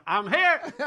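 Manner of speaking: high, small cry of I'm here; like Horton hears a who, I'm here; tiny faraway voice. Retold or imitated. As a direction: squeak it like a voice from far inside a purse. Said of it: "I'm going".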